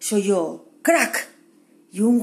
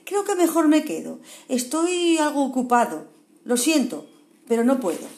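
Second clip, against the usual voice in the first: a higher, timid koala making excuses; hesitant koala; 4 semitones higher than usual. Acted. Kevin excuses himself to the badger, hesitant. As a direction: politely back out, a little nervous. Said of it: "contestó Kevin".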